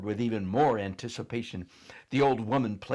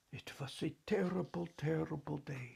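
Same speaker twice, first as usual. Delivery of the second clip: mournful repeat; 6 semitones higher, 8 dB quieter than usual. Acted. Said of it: "shaking her head at the distant memory".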